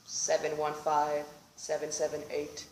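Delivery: a hint of a dazed drunk; lightly voiced drunk guy. Drunk intruder answers nonsensically.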